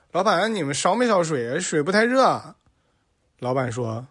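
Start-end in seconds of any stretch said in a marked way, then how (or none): 0.1-2.6 complaining customer. Acted. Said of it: "那个老板说".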